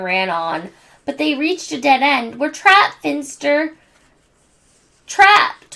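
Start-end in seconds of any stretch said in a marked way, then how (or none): 2.4-3.8 much higher, louder panic; panicked. Acted. Angelica panicking. 5.1-5.8 very high, loud wail. Acted. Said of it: "wailed Angelica".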